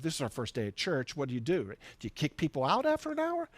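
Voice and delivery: hammed-up puzzled question; mock bewilderment. Bewildered new pastors wondering.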